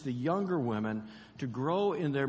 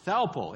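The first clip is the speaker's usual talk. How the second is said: "Thalpo" said higher and louder; emphatic word; 5 semitones higher, 4 dB louder than usual. Shown as a demonstration. Preacher to the congregation, hitting "Thalpo". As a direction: punch "Thalpo". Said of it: "not Alpo the dog food".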